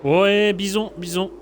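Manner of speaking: excited. Real, not acted. Car suddenly spins or errs.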